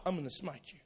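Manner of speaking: soft, low, limp "I'm gonna smite you"; a weak mock threat; puny threat. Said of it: "Are you scared of that?".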